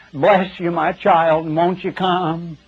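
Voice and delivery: slow, lilting mock preacher's voice; preachy sing-song tone. Preacher mocking the pious gospel tone, in a sing-song lilt. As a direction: parody a gospel salesman's pious croon. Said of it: "they get in this tone when they talk about the gospel".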